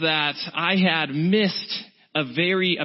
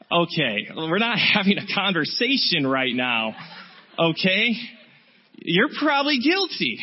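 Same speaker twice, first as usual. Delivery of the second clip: lightly acted smug superiority; self-righteous. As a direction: shut him down, then lay on the judgment. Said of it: "really self-righteous".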